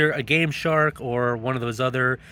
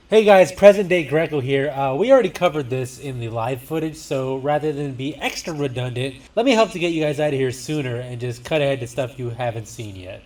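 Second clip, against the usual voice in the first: cave echo; 2 semitones higher, 3 dB louder than usual. Real, not acted. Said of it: "Why does it sound like I'm in a cave?".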